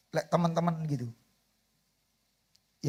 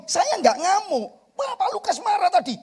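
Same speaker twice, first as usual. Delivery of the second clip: laughing protest; 14 semitones higher, 7 dB louder than usual. Retold or imitated. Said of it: "Saya selalu ngomong".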